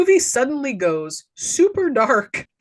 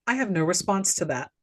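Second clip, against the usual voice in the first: softer, deadpan retold reply; 2 semitones lower, 5 dB quieter than usual. Woman answers Joe's spiel, deadpan. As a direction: quote her with a blank, quiet finality. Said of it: "looks him dead in the face and goes".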